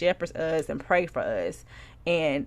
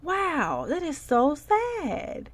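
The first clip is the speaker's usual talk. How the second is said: mock pity; 6 semitones higher, slower than usual. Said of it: "Or I'm just like".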